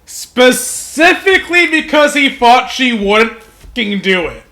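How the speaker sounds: amused, rising disbelief; laughing disbelief. Real, not acted. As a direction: laugh through the words.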